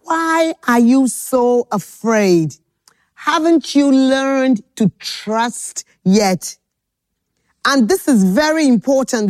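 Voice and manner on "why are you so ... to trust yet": slow gentle question. Acted. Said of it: "he said to them".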